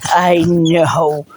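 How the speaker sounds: sing-song hello to the puppies; doting dog-owner voice at the door. Real, not acted. Cooing to her puppies.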